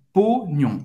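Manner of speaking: pognon with a nasal on at the end; pognon, nasal final vowel. Shown as a demonstration. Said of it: "O N tem o som do um".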